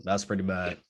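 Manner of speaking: low, subdued reaction to oneself; retold private reaction. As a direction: quietly take in bad news, retold. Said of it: "I was like".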